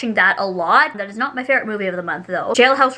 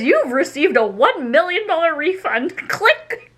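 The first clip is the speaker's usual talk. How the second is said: reading a scam text; 5 semitones higher, slower than usual. Retold or imitated. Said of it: "It says".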